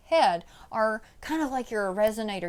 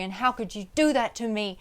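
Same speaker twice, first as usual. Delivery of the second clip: contained angry demo. Shown as a demonstration. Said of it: "you're still really angry".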